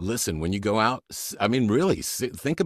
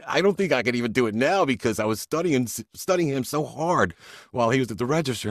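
ordinary talk

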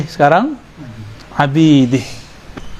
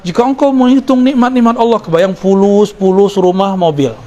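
mock sermon; 4 semitones higher than usual. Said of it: "Biasanya kita dicekokin dalam khutbah-khutbah".

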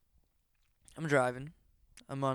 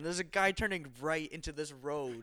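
retold screaming; 6 semitones higher than usual. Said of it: "I was just screaming at him".

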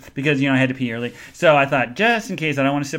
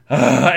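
exasperated groan; 3 semitones lower, 6 dB louder than usual. Retold or imitated. Helpless exasperation, retold.

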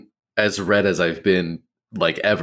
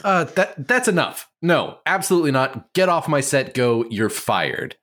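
put-on German accent; 6 semitones higher than usual. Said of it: "with German accents in mind".

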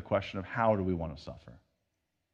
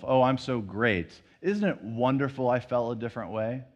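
smug pride. Retold or imitated. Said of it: "like you're so proud of yourself".

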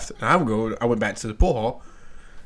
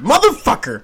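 mock curse; 12 semitones higher, 5 dB louder than usual. Imagined friend's angry reaction.

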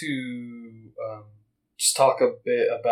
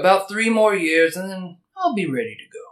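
put-on old Davis voice; 4 semitones higher than usual. Voicing old Davis answering.

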